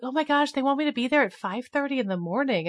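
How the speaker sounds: lightly hammed-up "oh my gosh" protest; mock dismay. Host mimicking nonprofits griping about an early interview, mock dismay. Voicing complaining nonprofits' reaction.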